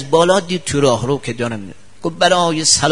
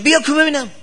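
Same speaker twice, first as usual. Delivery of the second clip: retold shout; 12 semitones higher, faster than usual. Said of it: "داد زد شاگرد".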